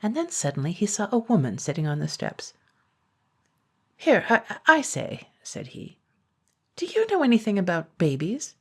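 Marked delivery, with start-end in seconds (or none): 4.0-8.5 dragon calling out. Acted. Dragon calls to woman on steps.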